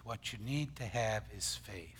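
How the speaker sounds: softly whispered repeat, unvoiced and low. Shown as a demonstration. Preacher whispering the point to his congregation. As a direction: drop to a whisper to drive it home.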